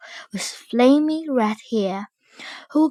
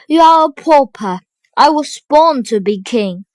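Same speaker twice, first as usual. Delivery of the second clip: proud insistence; 3 semitones higher, 7 dB louder than usual. A narrator's reading. Prince insists on his birth.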